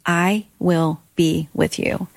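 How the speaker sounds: slow, tender, lightly voiced promise; gentle voice of God. Retelling how God answered her in the car, slow and tender. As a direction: let each word settle, slow and calm. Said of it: "And I heard him say".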